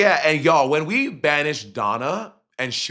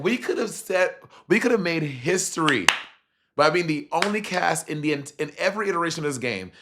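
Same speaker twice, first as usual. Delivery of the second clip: higher, exasperated rant about a missed chance; mad rant; 6 semitones higher than usual. Retold or imitated. Guest fuming at Ron for costing the cast history, indignant. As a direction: vent the frustration, pitched up and indignant. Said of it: "that's when I got mad at Ron".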